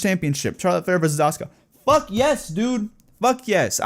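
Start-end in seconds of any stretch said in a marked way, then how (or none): 1.9-2.9 a high, delighted yelp of approval; thrilled cheer. Real, not acted. Fan cheering the Charlotte and Asuka match, thrilled high yelp. 3.2-3.8 excited cheer. Real, not acted. Fan repeating his approval, gleeful cheer.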